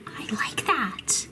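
soft breathy whisper. Real, not acted. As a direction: whisper it to yourself, delighted. Quiet delighted aside.

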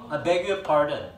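very slow, careful "I beg your pardon."; slow recital. Shown as a demonstration. Teacher spells out the full phrase for students. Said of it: "이게 뜻이 뭐니".

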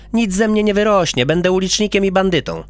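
put-on proud child listing his nicknames; boastful little boy voice; boy character.

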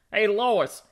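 goofy call with a drawn-out chuckle; goofy cartoon husband. Calling out to Lois, goofy cartoon husband voice. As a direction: play a doltish husband with a silly laugh. Impressions demo, Peter Griffin.

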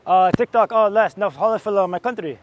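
put-on lightly accented foreign baller; halting English of a visiting player; foreign baller character. Visiting player answers about TikTok, foreign baller character.

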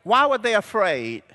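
preacher calling for a shouted answer. Real, not acted. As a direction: throw the question to the crowd. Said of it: "You gotta shout it out".

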